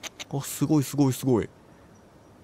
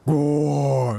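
mock monster roar on live TV; monster growl; much slower than usual. Imagined TV monster appearing, mock growl. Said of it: "化け物映ったら".

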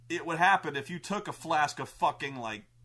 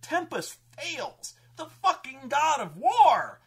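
mock proclamation; 10 semitones higher, 8 dB louder, slower than usual. Real, not acted. Mocking the humiliated god.

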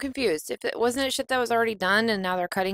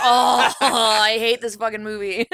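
exasperated outburst; 4 semitones higher, 4 dB louder, slower than usual. Retold or imitated. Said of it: "And I'm like".

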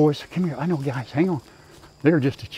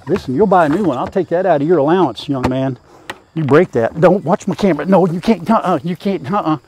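mock scolding; 5 dB louder than usual. Real, not acted. Scolding goat near the camera.

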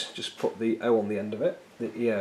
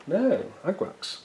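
slow grand declaration; 10 semitones higher, much slower than usual. Real, not acted.

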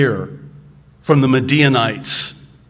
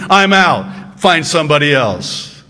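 mock exasperated quitting; 3 semitones higher, 6 dB louder than usual. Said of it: "He says to him".

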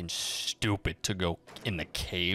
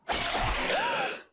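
sharp high gasp of surprise; startled gasp. Real, not acted. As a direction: jump with a sudden gasp. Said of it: "That actually made me jump".

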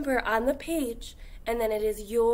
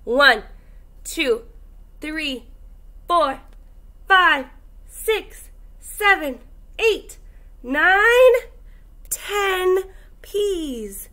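counting up, each number higher and louder; building counting; 4 semitones higher, 4 dB louder, slower than usual. Acted. Teacher counting to ten with the class, building up.

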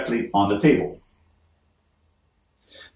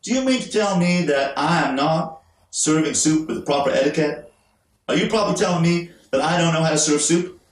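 imagined wife; 2 semitones higher than usual. Retold or imitated. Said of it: "And she'd say".

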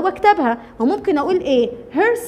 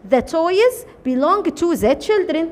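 slow dictation; much slower than usual. Shown as a demonstration. Teacher models the English sentence.

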